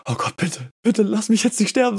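a mock prayer just before the fall; mock pleading. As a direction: beg for your life, half joking. Pleading inner prayer before jumping.

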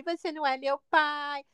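slow, mildly mocking echo of a child; mimicking back. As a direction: throw the taunt back, drawing it out. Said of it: "eu imitei ele". (devolvendo o deboche, imitando arrastado)

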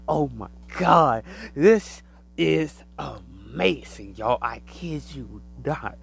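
drawn-out awestruck oh my God; amazed exclaim. Retold or imitated. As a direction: relive the wonder out loud. Retells sitting amazed on throne.

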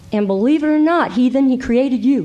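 fast, pushy rebuke tossed at the heathen; harsh jab at heathens. Shown as a demonstration. Teacher mocks a harsh rebuke to the heathen world, fast and pushy. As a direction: say it as a cocky put-down. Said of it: "Don't say it like that".

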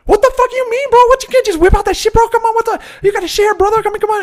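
very high, loud mock outrage; hammed-up shouted begging; indignant pleading. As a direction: badger him like an outraged movie stoner. Acted stoner demanding a share.

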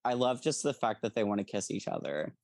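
half-laughing fangirl confession; laughing while speaking. Real, not acted. Gushing about the characters.

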